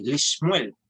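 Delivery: Lishmuel with i after l, sh straight into m; model pronunciation. Shown as a demonstration. Teacher models the new reading for the class: Lishmuel. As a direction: say Lishmuel slowly and clearly as a model word. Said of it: "La pronunciación va a ser".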